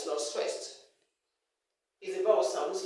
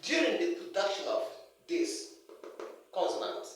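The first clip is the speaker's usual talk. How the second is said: careful, broken-up phrasing with pauses; deliberate teacher's pacing; going slowly; 3 dB quieter than usual. Real, not acted. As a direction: take it slowly, pausing between words. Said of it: "I have to go slowly".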